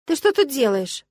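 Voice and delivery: startled, drawn-out question; surprised. Acted. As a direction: caught off guard by him at the door. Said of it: "удивилась я".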